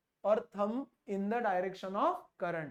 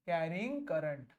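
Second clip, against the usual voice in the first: slow, low dictation; low, measured phrase; dictating notes; 5 semitones lower, 4 dB quieter, much slower than usual. Real, not acted. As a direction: say it slowly for copying. First take of dictated phrase.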